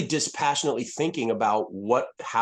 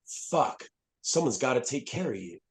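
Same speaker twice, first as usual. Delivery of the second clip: near-whispered, much softer aside to the dog; hushed to himself; 6 dB quieter than usual. Retold or imitated. Veteran recalling his words to his old dog, near-whispered. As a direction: breathe it out quietly, as if only the dog should hear.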